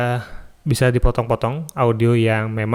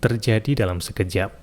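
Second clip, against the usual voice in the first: another intonation of the quote. Shown as a demonstration. Recording tutor demos a third quote intonation, gentler. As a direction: read the quote gently, letting it rise before the end. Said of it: "pakai intonasi yang lain juga bisa".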